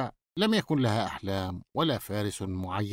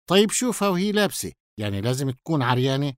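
quick, raised opening objection; hasty interjection; faster than usual. Acted. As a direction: jump in fast to argue. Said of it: "فأسرع سامي متدخلا".

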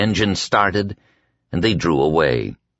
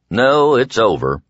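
higher, insistent contradiction; 4 semitones higher, 3 dB louder than usual. A narrator's reading. Prisoner contradicts his guards, insistent. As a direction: insist on it firmly. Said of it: "Ralph insisted".

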